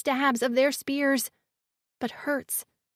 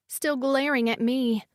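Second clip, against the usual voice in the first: usual speaking voice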